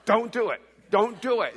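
firm, imitated warning, no shouting; earnest warning. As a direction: warn him off firmly, twice. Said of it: "she was more like".

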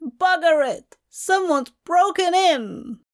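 put-on high-pitched alarm of an old aristocrat; afraid elderly man. A narrator's reading. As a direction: exclaim in fright as an old man. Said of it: "He sounded afraid".

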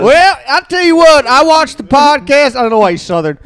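hammed-up Polish old man accent; Polish grandpa. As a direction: play her Polish grandfather sizing up the boyfriend. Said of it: "is Polish".

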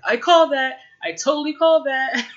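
high, loud retold boast; mock crowing. Man in the back claims he called it, mock crowing. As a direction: imitate someone gloating over a correct guess.

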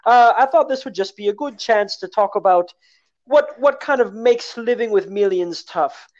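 lightly hammed-up upper-class toff; posh millionaire voice. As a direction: play a snooty rich gent. Posh millionaire role held.

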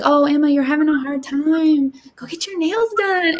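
high, singsong mock sympathy; well-meaning friend. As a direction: imitate pat, belittling advice. Voicing well-meaning friends' belittling advice.

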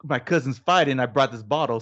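imitating an Irish buddy, badly faked accent; horrible Irish accent. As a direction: greet the lads in a clumsy Irish accent. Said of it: "again, my horrible Irish accent".

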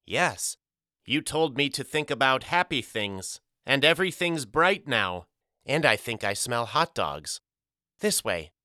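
a hint of a small boy suddenly happy; little boy, brightening. Pip telling Mama the light has come back, eager. Child Pip voiced in story.

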